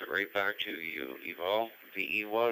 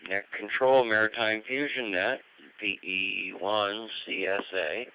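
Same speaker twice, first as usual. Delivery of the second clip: radio room static. Real, not acted. Ham radio net over the air.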